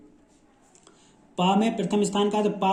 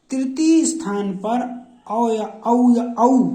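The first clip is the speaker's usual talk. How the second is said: औ drawn out slowly and held, a bit higher; drawn-out vowel; 4 semitones higher, 4 dB louder, slower than usual. Shown as a demonstration. Teacher stressing the औ sound for the class. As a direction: stretch each औ so students hear it. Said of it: "औ की ध्वनि प्रकट करता हो".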